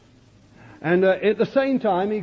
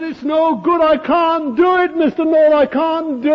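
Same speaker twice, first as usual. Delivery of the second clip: sobbing plea; 8 semitones higher, 6 dB louder than usual. Retold or imitated. Preacher voicing a weeping woman before the Lord, high anguished sobbing. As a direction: voice a broken woman sobbing to God. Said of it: "sobbing her heart out".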